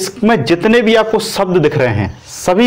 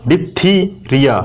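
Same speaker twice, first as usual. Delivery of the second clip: tag dictation; slower than usual. Shown as a demonstration. Teacher sounds out the term for students.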